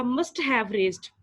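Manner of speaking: must have said very slowly, have leaned on; slow it right down and weigh on have; stress on must have. Shown as a demonstration. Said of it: "must have word यहाँ पे underline करें". (must have पर ज़ोर, बहुत धीमे)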